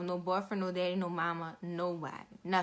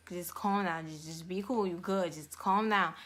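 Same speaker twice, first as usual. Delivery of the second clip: low, softer soothing voice; retold reassurance; 4 semitones lower, 4 dB quieter than usual. Nurse calming a crying patient before surgery, reassuring. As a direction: gently talk the patient down.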